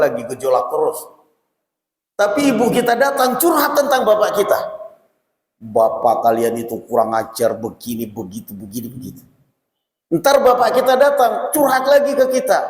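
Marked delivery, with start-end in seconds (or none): 5.6-9.2 low, hushed gossiping mother, fading away; complaining mother. Retold or imitated. A mother venting about the father to her grown child, in a low fading grumble.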